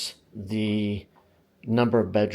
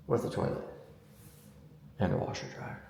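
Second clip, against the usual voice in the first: whispering; 2 semitones lower, 13 dB quieter, faster than usual. Pretend. Muttering the catch after hype.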